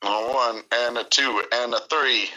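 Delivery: count-in. Real, not acted. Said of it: "ready to sing Happy Birthday".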